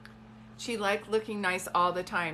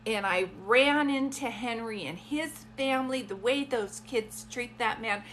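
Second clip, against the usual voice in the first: storytelling grandmother. Acted. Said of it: "when she was telling a story".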